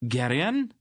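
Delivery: high call across the boat. Acted. Aunt Pol calling from the stern.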